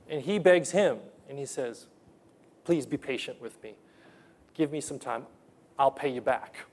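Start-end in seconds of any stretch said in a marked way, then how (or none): 2.6-6.7 a touch of a begging servant; mild pleading. Retold or imitated. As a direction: beg quietly from the knees.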